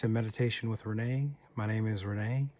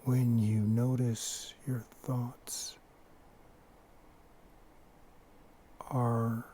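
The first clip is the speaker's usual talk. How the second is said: unhurried short phrases, each left to settle; guided meditation. Acted. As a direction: lead them gently into stillness, pausing often. Leads a breathing meditation.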